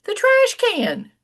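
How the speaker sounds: imitating a cranky grown son. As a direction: grumble like a sulky son. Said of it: "he looked at me and he said".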